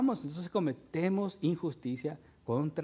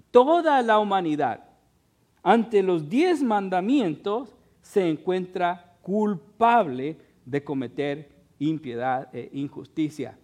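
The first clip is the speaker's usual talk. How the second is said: raised, louder pulpit voice; forceful preaching; 6 dB louder than usual. Real, not acted. Preacher to his brethren on all humanity's guilt, preaching forcefully. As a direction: drive it home to the congregation.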